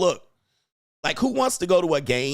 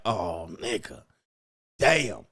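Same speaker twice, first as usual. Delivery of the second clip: mock defeated boyfriend; 6 semitones lower, much slower than usual. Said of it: "He like".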